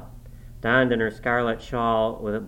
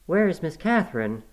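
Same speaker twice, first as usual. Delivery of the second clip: stern demand; 6 semitones higher than usual. A narrator's reading. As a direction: question pitched up, mildly stern. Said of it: "I demanded sternly".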